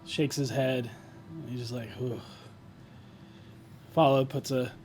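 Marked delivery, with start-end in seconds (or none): 1.9-2.2 heavy exhale. Acted. Character sits, shakes his head.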